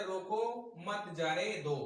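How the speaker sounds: brief pause after "रोको", then "मत जाने दो"; short comma pause. Shown as a demonstration. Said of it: "कुछ देर के लिए जब हम रुके फिर अगला शब्द बोलते हैं". ("रोको" के बाद थोड़ा रुककर "मत जाने दो")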